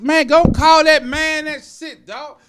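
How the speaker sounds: laughing mock insult. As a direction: hoot it out while cracking up. Mocking the cop insult, laughing.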